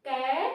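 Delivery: कै spoken clearly, the ए sound showing; demo syllable. Shown as a demonstration. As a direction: say कै so they hear the ए in it. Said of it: "तो आप कै बोल के देखिए". (कै को साफ़ बोलकर दिखाना)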